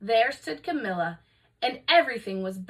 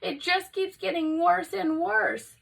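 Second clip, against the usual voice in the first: distressed; 8 semitones higher, 3 dB louder than usual. Acted. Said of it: "cried Missus Cream".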